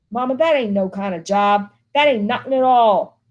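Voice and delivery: a hint of an angry son; bitter son. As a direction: complain with bitter scorn. Walter's bitter complaint to Mama.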